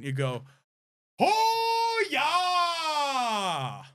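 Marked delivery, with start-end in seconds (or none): 1.2-3.8 high, loud, drawn-out Canadian holler; mock Canadian accent. Mimicking friends who mock the accent, hammed-up Canadian yell. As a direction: caricature a Canadian with a long sliding whoop. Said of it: "make fun of my Canadian accent".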